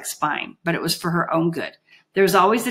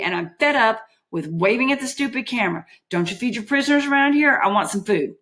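angry shout; 5 semitones higher than usual. Acted. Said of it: "shouted Holly".

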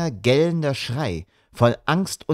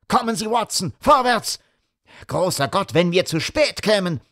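a touch of high frantic urgency; urgent call; 9 semitones higher than usual. A narrator's reading. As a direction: urge him on, alarmed. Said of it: "schrie Holmes". (drängend, hoch und gehetzt)

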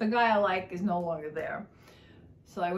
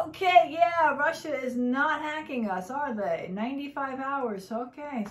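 sarcastic; 4 semitones higher than usual. Retold or imitated. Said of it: "I'm like".

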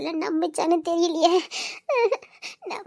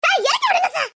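high, louder pleading cry; pleading to be let down; 9 semitones higher, 4 dB louder than usual. Acted. Girl carried off cries out for the man to put her down.

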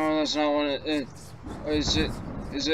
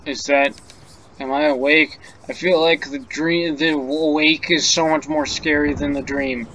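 panicked, louder, waking from a nightmare; frightened; 6 dB louder than usual. Acted. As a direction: gasp out the fear of waking.

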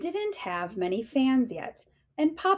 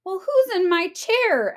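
higher little cub voice; littlest bear asking; 8 semitones higher, 4 dB louder than usual. Acted. Littlest bear spots someone in his chair, high cub voice. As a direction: ask it like a small curious cub. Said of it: "asked the littlest bear".

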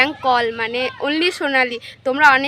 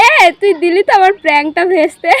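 laughing; 3 semitones higher, 10 dB louder, faster than usual. Real, not acted. Prank foiled, laughing.

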